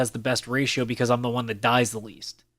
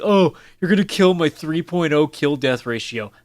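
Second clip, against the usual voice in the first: mocking whiner; 4 dB louder than usual. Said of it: "the guys who go around saying".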